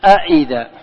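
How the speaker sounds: أئذا with both hamzas fully pronounced, loud and clear; أئذا said with two full hamzas; tahqiq reading. Shown as a demonstration. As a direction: sound each glottal stop in أئذا distinctly. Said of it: "أي تنطق بالهمزتين جميعا".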